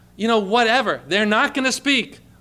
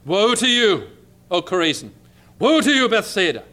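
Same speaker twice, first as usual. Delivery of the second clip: harsh rebuke. Acted. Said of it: "He spoke harsh words to".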